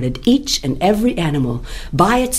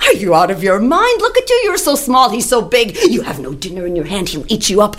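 higher, pleading warning; animals' cry; 4 semitones higher, faster than usual. Acted. Animals warn the rabbit she'll be eaten. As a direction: beg her to stop, fast. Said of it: "they cried".

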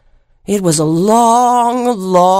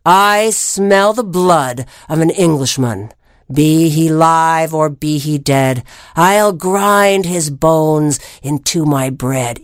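low, slow menacing giant; 3 semitones lower, slower than usual. Acted. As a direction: growl it like a hungry giant. Giant's rhyme in story.

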